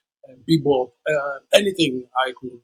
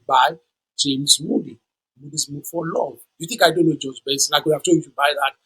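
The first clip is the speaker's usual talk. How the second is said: upset father. Retold or imitated. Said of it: "he was kind of upset".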